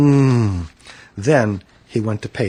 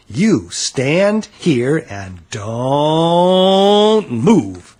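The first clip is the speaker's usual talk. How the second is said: slow, louder warning; stern father; 4 semitones higher, 4 dB louder, much slower than usual. A narrator's reading. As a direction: spell it out slowly, fed up. Father scolds child.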